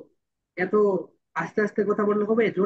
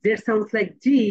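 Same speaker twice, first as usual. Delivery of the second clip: American z sound; much slower than usual. Shown as a demonstration. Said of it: "and American sound".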